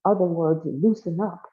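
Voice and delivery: high, declaiming speech-maker; proclaiming governor. Acted.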